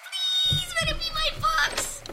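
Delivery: high, drawn-out begging; desperate hopeful plea. Acted. Girl watching mailman reach the door, desperately hopeful. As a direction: stretch out PLEASE in a high squeal. Girl wishing harder for books.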